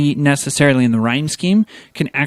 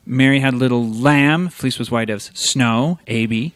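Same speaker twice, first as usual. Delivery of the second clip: recited rhyme. Shown as a demonstration. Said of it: "similar rhyming scheme".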